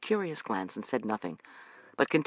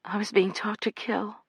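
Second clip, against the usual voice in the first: reluctant; 8 semitones higher than usual. Acted. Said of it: "Amanda said reluctantly".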